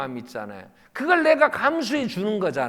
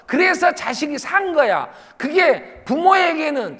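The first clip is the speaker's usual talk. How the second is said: raised, high-pitched preacher's voice; impassioned preaching; 7 semitones higher, 5 dB louder than usual. Real, not acted. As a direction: press the point home to the congregation. (목소리 높여 열띠게 설교하듯)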